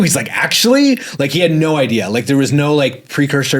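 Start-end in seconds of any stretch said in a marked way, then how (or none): 0.3-1.0 very high, loud "actually?"; disbelieving boss. Retold or imitated. Boss can't believe Drew is quitting, squeaky high disbelief.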